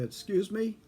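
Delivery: high baffled "Excuse me?"; puzzled question. Retold or imitated. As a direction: ask "Excuse me?" in disbelief. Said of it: "I said".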